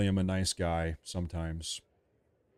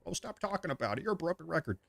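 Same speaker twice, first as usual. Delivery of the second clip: higher, much softer mocking whine; mock whiny critic; 8 semitones higher, 8 dB quieter, faster than usual. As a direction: parrot the complainers in a sneering voice.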